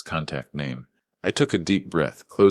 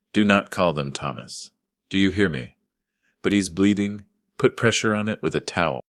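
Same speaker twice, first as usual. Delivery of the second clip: sharp command; 4 semitones higher than usual. Acted. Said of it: "The command was sharp".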